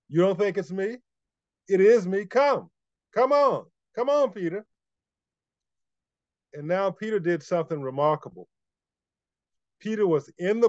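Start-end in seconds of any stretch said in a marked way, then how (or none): 0.1-4.7 rising, higher challenge to come; calling his bluff. Acted. Jesus calling Peter's bluff from the water, higher playful dare. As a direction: dare him to step out, come on. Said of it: "Kinda calls Peter's bluff".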